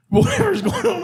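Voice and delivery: squeaky high mock tone. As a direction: mimic him airily. Mimicking his distracted state.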